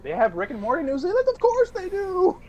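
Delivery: high, hammed-up New Zealand accent; mock New Zealand accent. A drunk guy fakes a Kiwi accent for the couple, hammed-up New Zealand accent. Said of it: "in a New Zealand accent".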